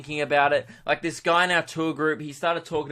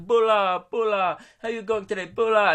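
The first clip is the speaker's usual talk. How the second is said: high, sing-out Fijian welcome; cheery greeting; 6 semitones higher than usual. Retold or imitated. Resort staff to arriving guests, cheery high greeting. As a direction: imitate effusive resort staff calling hello.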